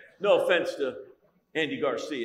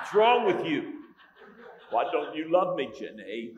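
mocking wife; 3 semitones higher, 5 dB louder than usual. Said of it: "And she'll say".

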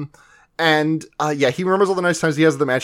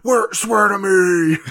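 mock demand; 4 semitones higher, slower than usual. Banter acting Ram interrogating.

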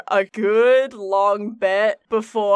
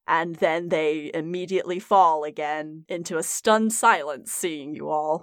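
hushed suspenseful narration; 2 semitones lower than usual. A narrator's reading. GM scene-setting narration.

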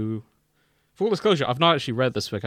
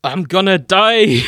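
laughing aside; 9 semitones higher, 14 dB louder, slower than usual. Real, not acted. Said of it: "laughing at partner's role voice".

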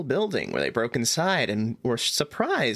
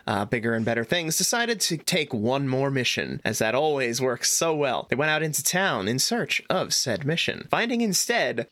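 storyteller recap of last session; previously on recap. Acted. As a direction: narrate the recap like a show intro.

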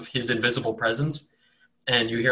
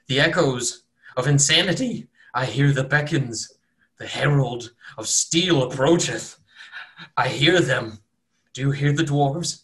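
raving prophet; 2 semitones higher than usual. Acted. Cultist turns to the room.

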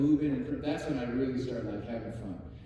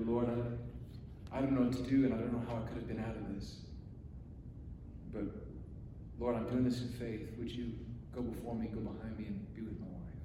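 quiet, low prayer voice; retold prayer; 3 semitones lower, 9 dB quieter than usual. Husband asking the Lord to be with his wife, hushed prayer. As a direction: pray softly, sinking lower toward the end. Retells own prayer before stage.

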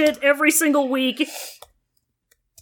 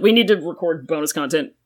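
weary monotone; 5 semitones lower than usual. Real, not acted. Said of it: "more death and monotony in your voice".

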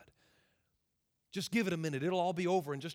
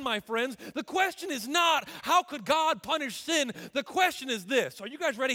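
impassioned sermon, voice pitched up on key phrases; forceful preaching; 5 semitones higher, 3 dB louder than usual. Real, not acted. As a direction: preach it with urgency to the congregation.

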